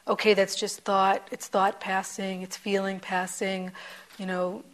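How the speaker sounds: dismissive, brushing it off; averse tone. Retold or imitated. Teacher mocking a dismissive take on impermanence, mildly averse. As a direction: say it with a little aversion. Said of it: "you notice the tone of my voice. There's aversion in it".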